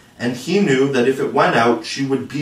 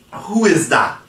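higher-pitched, wary question; calling out a challenge; 6 semitones higher, slower than usual. A narrator's reading. Peter to whoever taps at his door, challenging. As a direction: call it out to an unknown knocker. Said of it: "Then he spoke".

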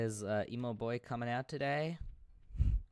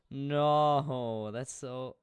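whiny protest; 3 semitones higher, 9 dB louder, much slower than usual. Real, not acted.

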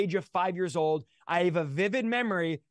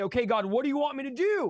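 bewildered questioning; 6 semitones higher than usual. Retold or imitated. Acted back-and-forth with God.

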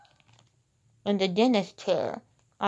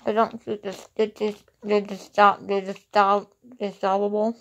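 slurred speech from a numb mouth. Real, not acted. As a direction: talk like your mouth is still numb. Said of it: "Sorry for I can't talk well".

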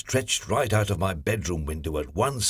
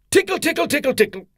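high, squeaky tickle tickle; playful tickle; 5 dB louder, faster than usual. A narrator's reading. Mister Tickle tickling the postman, high and playful.

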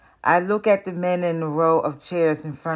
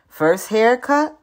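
friendly question; 6 semitones higher, 7 dB louder, slower than usual. Acted. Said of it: "one of the men asks me".

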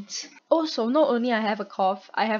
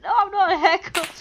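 higher-pitched, louder mock denial; retold protest; 9 semitones higher, 5 dB louder than usual. Replying to the accusing player, retold protest. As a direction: protest your innocence, play-acting.

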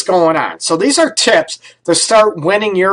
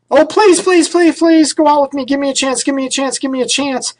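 begging suitor; 8 semitones higher than usual. Retold or imitated. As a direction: plead like a desperate suitor, overdoing it. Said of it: "beg and plead".

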